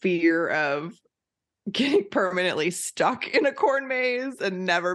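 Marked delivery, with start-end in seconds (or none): 1.7-5.0 laughing. Real, not acted. Laughing at corn maze fear.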